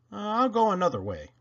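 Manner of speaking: high, quick little engine voice; Toodle, unsure. Acted. Toodle meets a red flag, high nervous voice. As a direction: dodge away nervously.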